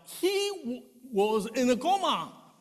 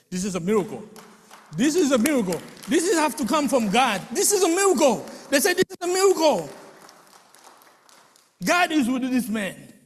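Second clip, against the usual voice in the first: amazed exclaiming; 4 semitones higher, 7 dB louder, faster than usual. Retold or imitated. Doctors amazed at recovery.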